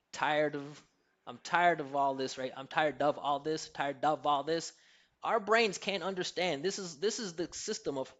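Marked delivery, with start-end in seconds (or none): 0.1-2.4 OF shrunk to a quick "uv" after TIRED; reduced of. Shown as a demonstration. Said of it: "Or same as of". 2.6-4.7 TIRED stressed, OF reduced and linked on; rhythmic contrast. Shown as a demonstration. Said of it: "we get that rhythmic contrast".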